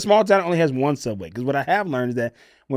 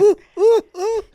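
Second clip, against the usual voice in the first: excited oohs; 5 dB louder, slower than usual. Retold or imitated. Reacting while eating sandwich.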